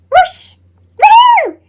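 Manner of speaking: high gleeful cheer; excited whoop. Acted. Potato cheering as his package arrives, high and gleeful.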